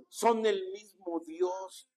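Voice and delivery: slow, every word weighed; slow emphasis. Shown as a demonstration. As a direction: spell it out slowly for the flock. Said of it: "Diga, son el mismo Dios". (despacio y enfático: "son el mismo Dios")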